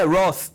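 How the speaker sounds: Roth said as "rɔθ", with the th made by the tongue between the teeth; American name pronunciation. Shown as a demonstration. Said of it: "aprendi a falar o nome certo".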